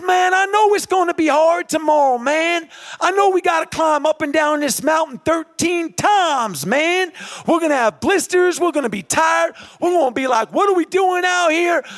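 rally the runner with rising intensity; motivational pep talk. Retold or imitated. Chad to runner before a hard mountain race, rousing pep talk.

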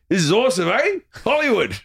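high, excited tipsy Aussie; Luke Hemsworth. Retold or imitated. Tipsy actor at a Hollywood premiere, high excited cheer. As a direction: exclaim it high, thrilled to be there. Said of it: "he was still like".

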